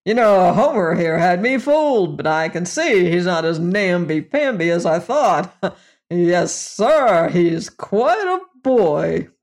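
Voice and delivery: a hint of a hearty, leering salesman; lightly voiced brash boss. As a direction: lightly play the jovial boss slapping backs. Narrator voices the boss Fader.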